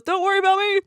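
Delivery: high, loud, hammed-up call; mock falling shout. Double H falling off a cliff, hammed-up shouted reassurance. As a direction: yell it up high as if falling away. Retold character calling while falling.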